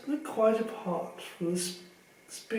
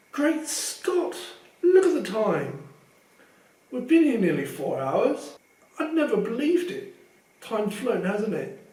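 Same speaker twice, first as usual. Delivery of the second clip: higher, bright surprise; cheery Lockhart; 4 semitones higher, 4 dB louder than usual. Acted. Vain teacher noticing the late hour, cheery surprise. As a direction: bustle about like a pleased star.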